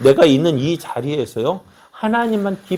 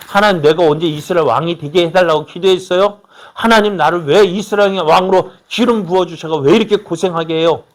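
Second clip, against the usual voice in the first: insistent, slightly raised protest; mock complaint to God; 4 semitones higher, 4 dB louder than usual. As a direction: plead and protest like a wronged servant. 다윗이 하나님께 따지는 가정. (하나님께 따지듯 목소리 높여 하소연)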